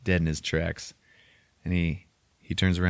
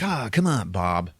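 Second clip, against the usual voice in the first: Dennis Hopper impression; 2 semitones higher, slower than usual. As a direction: plead with a lazy lift, then drop. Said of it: "So then Dennis Hopper's like".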